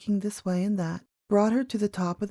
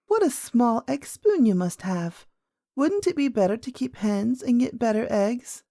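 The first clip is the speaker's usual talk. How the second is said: lightly voiced young princess, curious; a hint of an inquisitive child; little princess; 3 semitones higher than usual. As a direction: play a little girl wondering aloud. Princess questions old lady.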